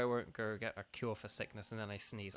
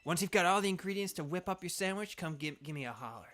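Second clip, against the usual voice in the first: lightly voiced energetic character; brisk send-off in a light character voice; fiery, eager cook; 4 semitones higher, 3 dB louder than usual. Crispin sending Bo for ingredients, lightly fired-up.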